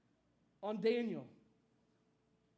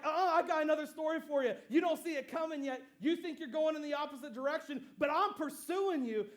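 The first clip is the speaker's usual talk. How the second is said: raised, emphatic comeback; confident retort; 4 semitones higher, 3 dB louder than usual. Retold or imitated. God answers Jonah running away, confident retort. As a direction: cut in as if one step ahead.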